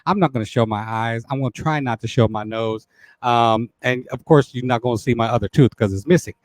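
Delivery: lightly hushed ASMR talk, close to the mic; a hint of ASMR intimacy; ASMR style. Shown as a demonstration. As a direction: ease into a half-hearted ASMR murmur. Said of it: "start it a little A S M R style".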